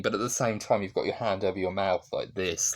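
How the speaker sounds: ordinary talk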